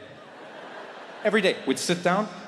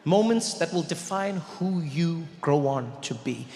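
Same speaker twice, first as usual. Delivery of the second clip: mock solemn; slower than usual. Mock-solemn speech to the audience.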